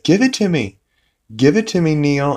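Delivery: high-pitched pleading insistence; mock frantic demand. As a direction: imitate someone desperate to get it back. Meg demanding the tape recorder.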